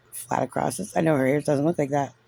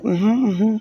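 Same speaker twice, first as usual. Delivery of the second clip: mock polite nodding along; 5 semitones higher than usual. Imitating self in the meeting, so frustrated, mock agreeable. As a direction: hum along as if holding back frustration. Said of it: "I'm like".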